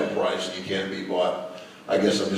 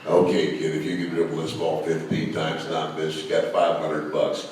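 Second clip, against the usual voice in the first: hardcore; 4 semitones lower than usual. Retold or imitated. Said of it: "I had to be hardcore".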